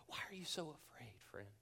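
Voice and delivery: soft unvoiced whisper, tender and close; gentle whisper. Jesus asking a fearful friend, in a tender whisper. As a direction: breathe the question as if sitting beside them.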